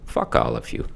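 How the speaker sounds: barely voiced parting swipe; whispered curse. Real, not acted. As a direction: hiss it under your breath. Muttered curse then apologizes.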